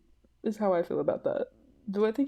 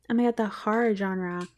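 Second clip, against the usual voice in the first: put-on 1 Valley Girl. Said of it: "I sound like a Valley Girl".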